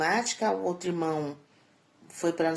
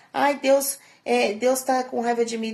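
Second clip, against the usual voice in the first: higher, louder mocking wail; mock whiny lament; 5 semitones higher, 6 dB louder than usual. Mocking those who say God is angry, a loud whiny wail. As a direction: ham up the self-pity.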